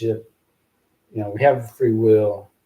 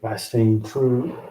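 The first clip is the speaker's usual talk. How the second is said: slow reading; slower than usual. Shown as a demonstration. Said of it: "I'll say it like this".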